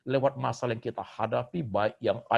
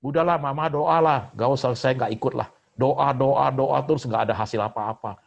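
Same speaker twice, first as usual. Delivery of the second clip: fed-up complaint; 6 dB louder than usual. Acted. Complaining child refuses prayer, quoted.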